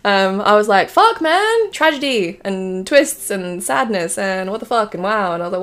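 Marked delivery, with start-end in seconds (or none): 0.9-5.3 exclaim, then list each shock; mock amazement. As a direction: reel it off like a stunned reader. Retelling her reaction to the wiki.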